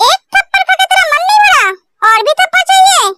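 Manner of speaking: high, sneering taunt; mock her for the slap; taunting threat. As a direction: rival girl jeering and threatening. Taunting rival about a slap.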